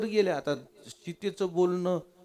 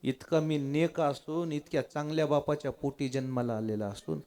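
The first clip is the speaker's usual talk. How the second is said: hurt pleading; 3 semitones lower, 5 dB quieter than usual. Acted. Lakshman begs not to be accused.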